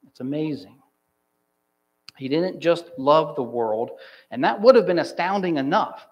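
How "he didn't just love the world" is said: "love" leaned on after "didn't just"; emphatic LOVE, setting up a contrast; stress on LOVE. Shown as a demonstration. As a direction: put the weight on the word "love". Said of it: "He so loved it".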